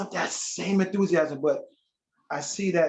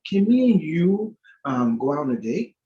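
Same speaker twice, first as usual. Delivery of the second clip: hesitant asking; 5 dB louder than usual. Retold or imitated. Admirer asking church sister for a date, hesitant. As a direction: stretch it out as a tentative ask.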